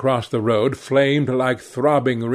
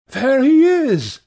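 much higher and louder, slow thrilled outburst; excited cry; 13 semitones higher, 5 dB louder than usual. A narrator's reading. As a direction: call it out, thrilled to spot him. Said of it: "she cried".

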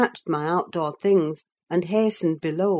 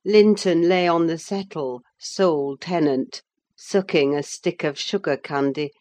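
plain reading voice

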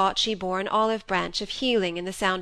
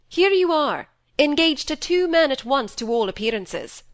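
higher, louder reproach; a father scolding his stepdaughter, raised reproach; accusing father; 7 semitones higher, 6 dB louder than usual. A narrator's reading. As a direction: throw the charge at her.

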